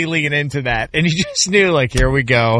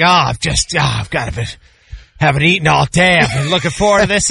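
hammed-up show of hunger; laid-on mock complaint. Dad laying it on about his food, hammed-up complaint. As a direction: really lay on the suffering. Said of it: "he would really lay it on".

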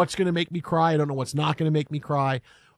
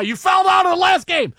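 much higher, louder playful yell at the player; mock outraged shout; 13 semitones higher, 7 dB louder than usual. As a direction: bellow it like a fan teasing him.

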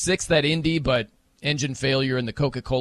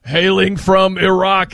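slow, loud ring announcer intro; 3 semitones higher, 9 dB louder, slower than usual. Retold or imitated. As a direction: boom it out like a wrestling ring announcer. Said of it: "It's just like pro wrestling".

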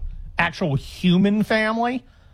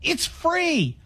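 higher, bright salesman offer, hammed-up; mock shelter worker handing off a dog; mock giveaway pitch; 9 semitones higher than usual. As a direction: hand over the free dog like a too-good deal. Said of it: "No, this is a lie".

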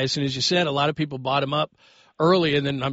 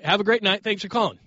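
forced cheerful dismissal; 6 semitones higher than usual. Real, not acted. Dismissing the caller.

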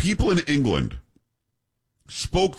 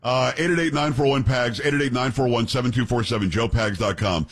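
radio host read. Acted. Reading the show's phone number.

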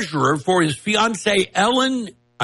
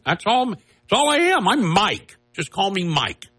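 higher-pitched mock innocence; innocent act; 5 semitones higher than usual. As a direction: lightly mimic someone playing harmless. Voicing Sun pretending to be harmless.

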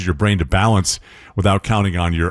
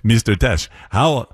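mock Swedish accent, lightly done; hammy imitation of a Swedish accent; terrible Swedish accent. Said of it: "it's a terrible Swedish accent".

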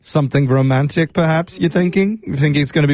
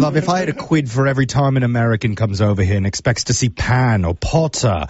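put-on British accent. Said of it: "use my absolute worst British accent".

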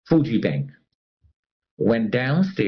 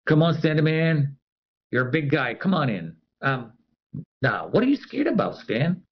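teasing coworker; 4 semitones higher than usual. Retold or imitated. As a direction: needle him into the elevator. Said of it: "I can hear this".

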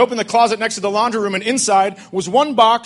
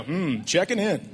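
sheepish quiet pun; 9 dB quieter, slower than usual. Retold or imitated. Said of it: "And I go".

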